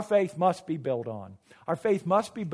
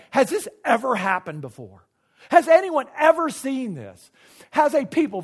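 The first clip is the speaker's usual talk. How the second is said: voicing an amazed Moses, building louder; acting out amazement; 4 semitones higher, 5 dB louder than usual. Preacher voices Moses amazed at God speaking, acted amazement. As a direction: ask it in emphatic wonder. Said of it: "He is amazed".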